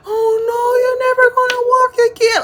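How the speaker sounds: high, sobbing mock wail; imitating crying. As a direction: wail it like a kid in tears. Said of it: "crying so hard that I can't even get the words out".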